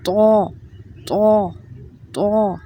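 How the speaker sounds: تو said thick with rounded lips, air filling the mouth; a full, heavy تو; heavy letter. Shown as a demonstration. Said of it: "تو جو ہے یہ بالکل موٹا پڑھا جانے والا حرف ہے".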